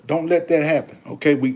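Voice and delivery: usual speaking voice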